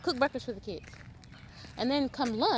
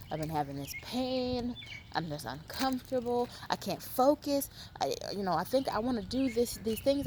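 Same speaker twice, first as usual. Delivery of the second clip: mock complainer; 3 semitones lower, 4 dB quieter than usual. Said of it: "And then, and then say".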